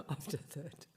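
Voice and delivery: real laugh breaking into the words. Real, not acted. Meditation teacher joking he has nothing to add, laughing. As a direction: chuckle through the end of the sentence.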